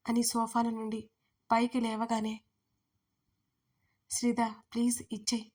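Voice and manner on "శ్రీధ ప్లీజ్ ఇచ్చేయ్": begging. A narrator's reading. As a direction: coax her gently for the phone. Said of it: "అన్నాడు బ్రతిమాలుతూ".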